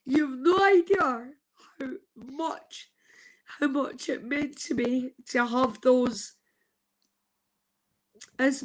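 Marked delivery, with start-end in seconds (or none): 0.1-5.1 choked up, voice catching on the words; overwhelmed, near sobbing; crying. Real, not acted. Thanking viewers for being there, crying. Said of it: "I'm crying my heart out".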